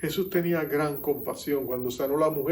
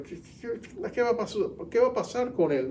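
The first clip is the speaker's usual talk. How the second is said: alarmed; 7 semitones higher than usual. Retold or imitated. Alarmed crowd at funeral.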